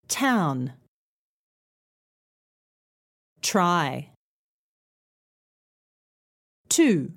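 "Town. Try. Two." each opening on an airy t; isolated model words, puff of air starting "Town", "Try", "Two"; aspirated T words. Shown as a demonstration. Teacher leading t practice, clearly aspirated. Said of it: "let's practice with the t sound".

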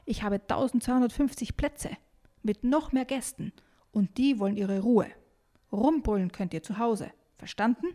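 mildly indignant scolding; touch of bossy irritation; grumbling. Acted. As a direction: lay down the rules to noisy kids. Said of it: "motzt sie".

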